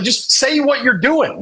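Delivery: high, slow pleading instruction; mock exasperation. Bandmate coaching the actor, high drawn-out exasperation. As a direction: draw it out high, at wit's end.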